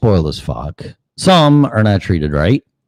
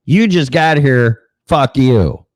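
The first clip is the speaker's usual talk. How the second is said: higher, slow, put-out dog voice; the senior dog laying down the law, drawn out; indignant old dog; 7 semitones higher, slower than usual. Retold or imitated. Old dog telling off the newcomer, high and slow. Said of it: "dog with equity's like".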